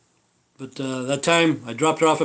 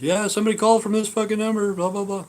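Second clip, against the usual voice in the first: higher mock voice of a rugged old guy, lightly done; hint of a smoker caller, pitched up; mock rugged old white dude; 7 semitones higher than usual. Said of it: "he has a rugged voice".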